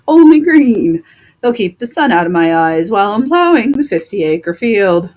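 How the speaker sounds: a fed-up horse complaining about his vet; talking horse. Acted. Plow horse complains to the doctor about the vet, grumbling horse voice.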